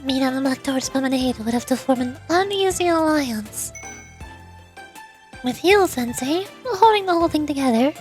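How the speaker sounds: lightly voiced, assured strategist; understated poise while laying out a scheme; composed, calculating president. President explaining her plan to Sensei, lightly voiced composure.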